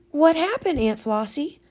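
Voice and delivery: lightly voiced eager child; eager question. A narrator's reading. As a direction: ask eagerly.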